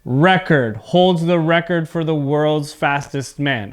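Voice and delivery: record as REK-erd both times; record with weight up front, -erd reduced; noun stress on first syllable. Shown as a demonstration. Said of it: "you can hear my voice sound different".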